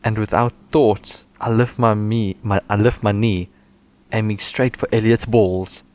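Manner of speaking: slow, overacted novel reading; dramatic reading. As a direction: read it like a melodrama. Reads smut aloud dramatically.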